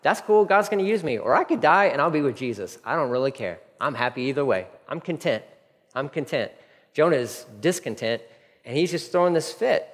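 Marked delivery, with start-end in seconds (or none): 0.0-6.5 content Paul. Retold or imitated. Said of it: "The Apostle Paul's like".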